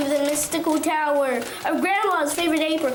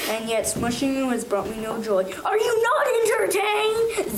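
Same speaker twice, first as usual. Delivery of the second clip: booming champion's challenge to the crowd; gladiator Rock; 2 semitones higher than usual. Acted. Rock cries out to the backyard crowd like a gladiator.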